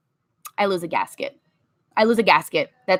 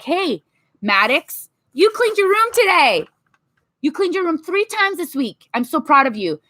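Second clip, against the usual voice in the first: praising parent; 4 semitones higher than usual. Shown as a demonstration. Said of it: "be like".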